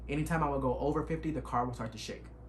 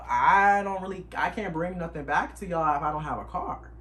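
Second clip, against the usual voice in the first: exasperated protest; 3 semitones higher, 5 dB louder than usual. Retold or imitated. Arguing with Enterprise.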